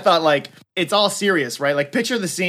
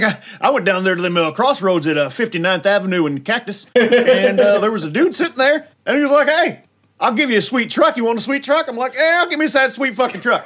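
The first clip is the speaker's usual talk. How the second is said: dumb-face voice; 3 semitones higher than usual. Retold or imitated. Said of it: "while you're talking like that".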